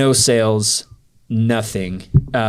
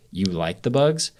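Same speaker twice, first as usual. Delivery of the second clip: mildly condescending, slow questioning echo; condescending disbelief; slower than usual. Retold or imitated. Young salesman taken aback by a homeowner's answer, mildly condescending. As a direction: slowly question it with a touch of judgment. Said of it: "was almost kinda condescending".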